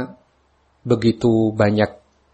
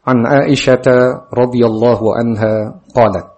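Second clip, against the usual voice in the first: louder, slow Arabic recitation; hadith recitation; 5 dB louder than usual. A narrator's reading. Teacher reads Arabic hadith to students, formal recitation. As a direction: read it out deliberately, projecting each word.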